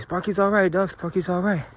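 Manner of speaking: high put-on voice for the other guy; imitated casual reassurance.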